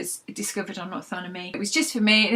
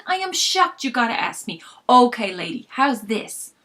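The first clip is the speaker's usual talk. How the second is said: mock offended Frank; 3 semitones higher, 6 dB louder than usual. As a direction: play the wounded shopkeeper. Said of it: "feigned offense".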